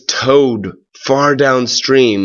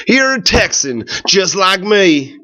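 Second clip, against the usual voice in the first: higher, lightly voiced drifter; a friendly drifter setting the boy straight; Chuck correcting Bill; 7 semitones higher than usual. A narrator's reading. Chuck tells Bill he is a Texan, higher friendly drifter voice. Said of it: "said Chuck".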